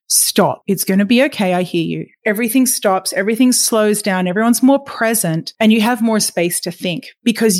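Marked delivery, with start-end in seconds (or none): 0.1-2.1 lower, calm and steady; calm reassuring voice. Shown as a demonstration. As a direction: settle a child down gently. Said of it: "drop your voice down and say".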